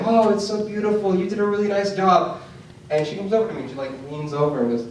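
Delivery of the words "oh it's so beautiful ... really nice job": mock teacher voice. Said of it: "She's gonna say".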